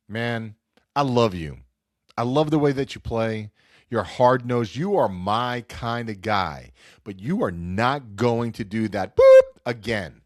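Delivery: lightly voiced coach laying down the law; firm coach. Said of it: "he was like".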